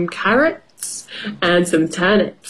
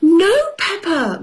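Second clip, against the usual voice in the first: higher, firm mummy voice; mother voice; 10 semitones higher than usual. Acted. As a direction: tell the child off gently.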